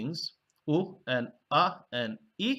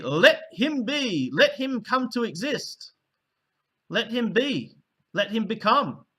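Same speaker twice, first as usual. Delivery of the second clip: solemn decree; 6 semitones higher, 3 dB louder than usual. Shown as a demonstration. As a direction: pronounce it like a grand divine decree. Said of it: "would be".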